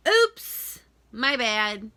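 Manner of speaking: fake apology. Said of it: "I said".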